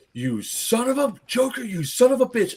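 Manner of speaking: high-pitched mock outrage; indignant cursing. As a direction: imitate a duped player swearing. Duped player cursing, acted out.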